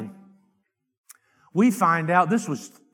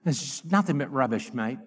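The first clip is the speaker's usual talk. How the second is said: lightly mocked British-style accent, pitched low; low, quiet go at a British-style accent; put-on accent, British-style; 7 semitones lower, 5 dB quieter than usual. Shown as a demonstration. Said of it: "say that with an accent".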